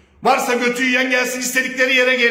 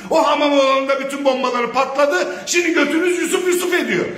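heated yelling with scornful laughs; real furious taunting; angry shouting. Real, not acted. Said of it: "biraz sinirlendim".

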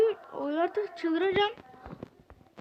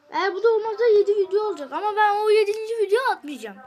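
angry declaration; 3 semitones higher, 6 dB louder than usual. Real, not acted. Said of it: "o kadar sinirlendim ki".

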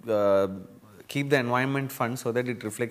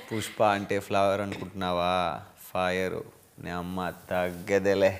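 fast, fuller-voiced Pushpa line; Pushpa dialogue; 4 semitones lower, faster than usual. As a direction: deliver the Pushpa punchline properly, quick. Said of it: "I'll tell it properly".

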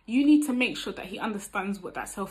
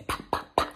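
unvoiced, evenly spaced lip pops; popped "pa" sounds; faster than usual. Shown as a demonstration. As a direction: pop out each "pa" like ticking off steps. Imitates five quick interview steps.

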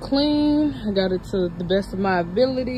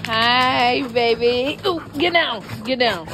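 excited dog greeting; 5 semitones higher, 5 dB louder, slower than usual. Real, not acted. Dogs jumping on her.

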